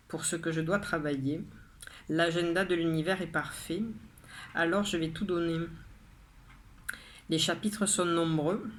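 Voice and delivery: measured poem reading, pausing after each line; poem recitation. Acted. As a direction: read your poem out line by line, with deliberate pauses. Rereads own poem aloud.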